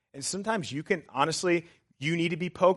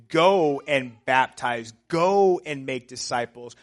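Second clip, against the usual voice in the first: emphatic; 8 semitones higher, 10 dB louder than usual. Retold or imitated. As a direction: build into forceful, high-pitched exhortation. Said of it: "Jesus is pretty emphatic when he says".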